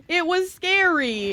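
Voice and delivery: mock-dramatic high, slow cry of fright. Retelling the fight, said twice.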